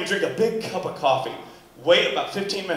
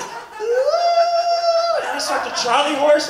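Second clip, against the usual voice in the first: mock straining yell; 3 dB louder, much slower than usual. Straining climax, shouted.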